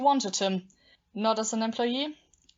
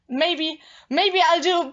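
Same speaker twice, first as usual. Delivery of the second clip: louder and higher, building in anger; rising bitterness; 8 semitones higher, 7 dB louder, slower than usual. Acted. Jilted woman voices a dark threat, rising anger. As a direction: let the jealousy boil up.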